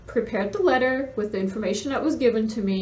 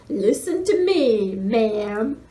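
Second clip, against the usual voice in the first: slow, louder, mock-threatening scold; mimicking a rude official on the phone; imitating a rude threat; 4 dB louder, much slower than usual. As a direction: retell her menacing tone as a parody. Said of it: "and it was kind of rude".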